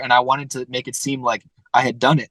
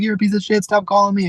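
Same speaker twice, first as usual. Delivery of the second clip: imitating an irate homeowner, pitched much higher; mock angry yell; 8 semitones higher than usual. Cold-called homeowner snapping at the caller, mock angry. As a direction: toss off a retold insult in a mocking pitch. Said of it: "people yelling at me on the phone".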